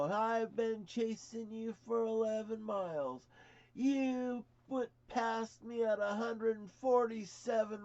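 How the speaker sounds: high, loud, slow mock trooper rant; angry state trooper. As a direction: hammer the question like an outraged cop. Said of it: "And he says".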